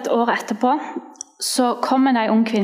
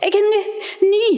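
joyful exclaim; 10 semitones higher than usual. Retold or imitated. Quoting woman's joy.

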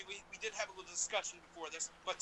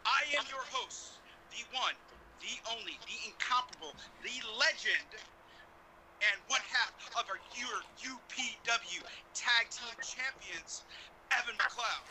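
booming ring announcer intro; ringmaster; 3 semitones higher, 3 dB louder than usual. Pretend. Host's grand ring announcer intro.

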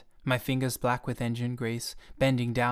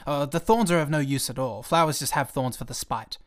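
irritated retort; 4 dB louder than usual. Acted. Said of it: "I was upset over this bolt".

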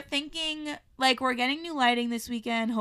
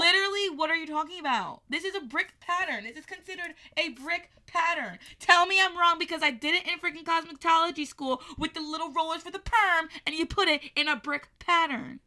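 indignant arguing; 5 semitones higher than usual. Real, not acted. Keeps arguing she is right.

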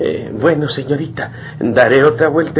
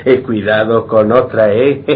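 laughing; 4 semitones lower, 4 dB louder than usual. Acted. Doctor jokes warmly.

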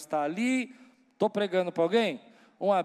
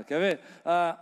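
ordinary talk, nothing marked

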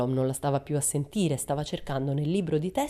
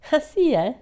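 sour; 12 semitones higher, 7 dB louder than usual. A narrator's reading. Teacher's sour reaction.

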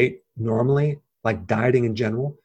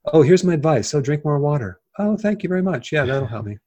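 mocking; 4 semitones higher than usual. Mocking a useless advice exchange.

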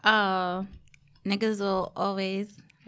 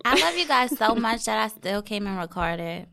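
talking through a numb mouth; words a little slack from anesthesia; numb mouth from dentist. Real, not acted. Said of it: "and my mouth was numb".

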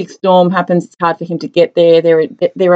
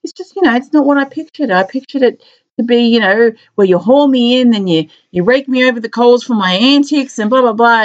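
mock whiny cop; 3 semitones higher than usual. Retelling a film scene, a lightly voiced mopey cop. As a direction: play the sad cop complaining he gets no scolding. Depressed cop quoted whining.

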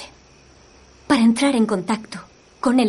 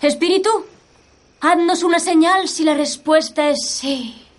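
seance medium; 6 semitones higher than usual. Acted. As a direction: plead with the spirit in trance. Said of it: "intentaré alcanzar un estado de trance".

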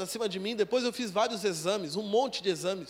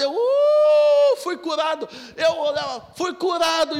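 high, loud cry of joy; ecstatic shout; 6 semitones higher, 9 dB louder, slower than usual. Retold or imitated. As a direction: shout it out, overjoyed. Shouting he was healed. (grito de êxtase, agudo e alto)

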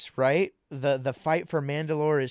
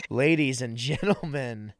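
sultry voice. Pretend. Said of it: "that sultry voice you just heard".

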